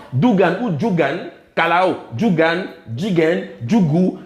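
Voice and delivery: Bambara words said slowly, one by one; slow word list. Shown as a demonstration. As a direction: read out "Dougan ou Djougan, Kalao, Djougan, Djigen, Djougou" slowly, each word set apart. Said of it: "On voit se répéter la même structure phonétique".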